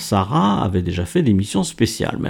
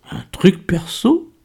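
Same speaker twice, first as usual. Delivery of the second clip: slow, high teasing echo; titillated; 9 semitones higher, slower than usual. A narrator's reading. Miguel scents a love affair in Kader's secret, titillated. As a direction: draw the question out with rising, tickled curiosity. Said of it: "tout à fait émoustillé".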